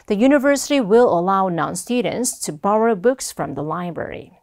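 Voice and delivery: slow, deliberate English model sentence; model reading. Shown as a demonstration. Teacher models the answer sentence for students, slow model reading. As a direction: read it out slowly for learners. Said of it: "자, 말해보겠습니다".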